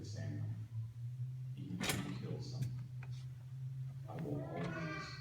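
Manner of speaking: half-whispered, solemn promise; serious hush. Retold or imitated. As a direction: drop to a grave near-whisper for the son. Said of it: "And then I would get really serious".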